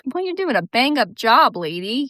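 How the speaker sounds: mock her with fake praise; sarcastic praise. Sarcastic imagined reply to customer.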